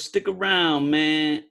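a hint of New York street drawl; lightly voiced neighborhood guy; New York street talk. Abel asking him to stay again, with a hint of New York drawl. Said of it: "he kinda talks like, like bebop".

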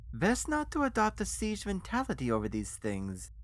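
put-on accented, sinking into slow, spaced-out words; cold menace. Financier pressures the refusing guest, coldly and very slowly. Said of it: "He said coldly".

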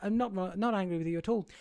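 soft, halting imitation of a boss; quietly polite, with pauses between requests; soft-spoken boss. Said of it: "Meryl Streep is like".

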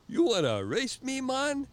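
high, loud mock island taunt; Jamaican instructor challenge. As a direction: throw down the challenge like the local instructor.

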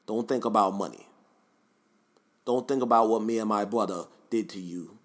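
lightly voiced rap-sage impression; measured mock-wise pronouncements. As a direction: imitate a philosophizing rap-group leader. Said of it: "My rapper impression, though, is kinda fire".

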